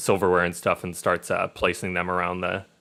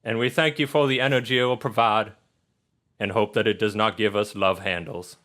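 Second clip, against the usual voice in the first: measured grace with pauses between phrases; phrase by phrase, like grace at dinner; table prayer. Acted. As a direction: say an earnest mock blessing over the bread. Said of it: "He says".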